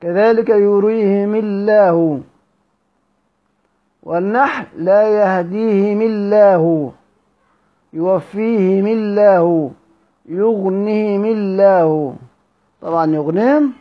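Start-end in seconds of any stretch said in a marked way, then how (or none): 0.0-2.2 slow recitation, يريهم الله as "yurihimi-llah"; "i" on the mim of يريهم, leading into light الله; kasra, light lam. Shown as a demonstration. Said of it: "نفس النظام هنا". 4.8-12.2 slow recitation, each الله with a thin L after "himi"; "i" on the mim of يغنيهم, leading into light الله; kasra, light lam. Shown as a demonstration. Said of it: "نفس النظام هنا".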